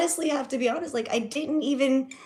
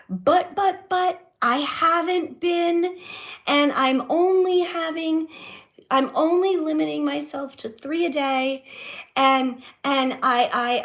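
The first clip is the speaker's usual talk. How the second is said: higher, stammering mock-flustered mom; flustered mom excuses; 5 semitones higher, 3 dB louder than usual. Daughter imitating mom's excuses about smoking, higher and flustered. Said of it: "the excuses, the immediate".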